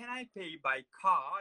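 put-on London accent, slow and drawn out. A barista retells a customer's question to him, in a london accent. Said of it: "E ela era de Londres".

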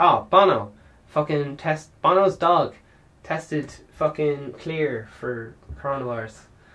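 ordinary talk, nothing marked

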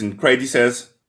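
ordinary talk

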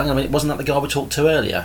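ordinary talk, nothing marked

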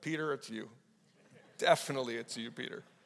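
muttered under the breath. Picturing the Last Supper as Andrew: muttering under breath as Andrew. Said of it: "I'm saying under my breath".

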